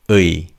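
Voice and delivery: 의 as 으 gliding quickly into 이; two vowels run together. Shown as a demonstration. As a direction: blend 으 and 이 quickly into one syllable 의. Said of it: "say the two sounds quite quickly".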